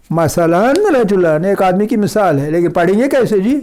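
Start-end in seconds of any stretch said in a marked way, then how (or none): none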